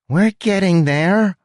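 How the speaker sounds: loud high impatient rat; snapping, slow. A narrator's reading. Huck impatient.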